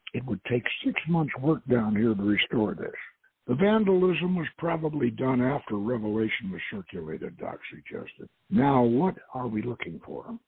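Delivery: calm, measured reading of a novel; story narration. A narrator's reading. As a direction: read the chapter aloud like an audiobook. Host reads his novel aloud.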